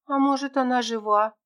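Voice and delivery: lightly voiced young girl asking her friend; little girl Tera. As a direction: play a small lost girl, hopeful.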